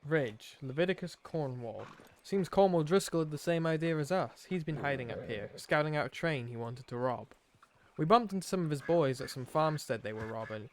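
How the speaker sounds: lightly put-on outlaw accent for a journal; Arthur's put-on accent. Player reading Arthur's journal aloud, put-on accent. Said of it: "doing this accent".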